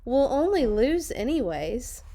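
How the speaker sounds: a hint of loud whine; whiny kids. Players grumbling at their coach, mildly whiny. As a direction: drag it out like bored players. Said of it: "they said".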